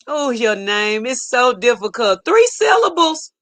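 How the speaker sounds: incredulous mock whine; mock complaint. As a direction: mimic a complainer, pitch leaping up at the end. Mocks people who fault the name.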